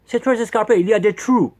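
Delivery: put-on clumsy English accent on French words; mock English accent, lightly done; horrible English accent. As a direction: keep up the bad English-accented guide voice. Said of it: "Quel horrible accent anglais".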